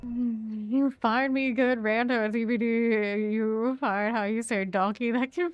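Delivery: put-on loud, broken-English Russian accent; mock Russian accent. Streamer jokes in mock Russian accent to teammates. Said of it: "like, Russian accent for".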